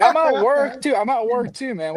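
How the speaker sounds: giggling through the words; laughing. Real, not acted. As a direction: laugh as you protest. Laughing while denying smiling.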